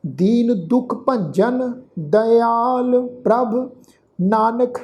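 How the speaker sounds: slow, drawn-out chant of the verse; scripture recitation. Shown as a demonstration. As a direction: intone each word slowly and devoutly. (ਹੌਲੀ ਹੌਲੀ ਪਾਠ ਉਚਾਰਨ)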